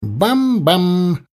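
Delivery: two ringing shots from small guns; ringing cannon imitation. A narrator's reading. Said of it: "Звонко ударили".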